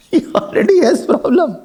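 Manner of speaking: repeated through a light laugh. Real, not acted. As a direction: chuckle as you repeat the punchline.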